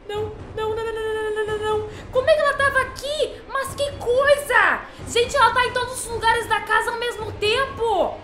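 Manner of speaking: high panicked shrieking; frantic high repeated no; scared horror game streamer. Real, not acted. Nun appears again everywhere.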